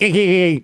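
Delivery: little baby's giggle, imitated. Father imitating his baby daughter starting to laugh, imitated giggle. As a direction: mimic a small baby giggling. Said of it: "she does a little baby".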